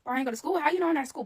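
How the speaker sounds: high, loud panicked reply; panicked yell. Retold or imitated. Caught skipping school, shouting back at grandma in panic. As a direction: blurt it out in a panic. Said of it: "I was like".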